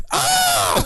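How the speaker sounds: high shriek of pain; mock scream. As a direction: yelp like burning sauce. Yelling after taco sauce.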